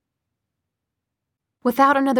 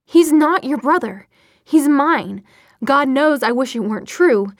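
raised, heated rebuttal; vehement denial; 4 semitones higher, 6 dB louder than usual. A narrator's reading. Clary denying Sebastian is Jace's brother, vehement. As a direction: contradict them forcefully, louder and higher.

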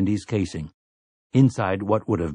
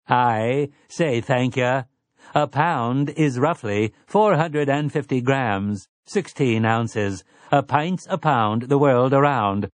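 a hint of a prim, eager robot servant; lightly voiced robot; 4 semitones higher, slower than usual. Robot Andy agrees to help Eddie, lightly voiced prim robot. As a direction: chirp it lightly, like a polite machine.

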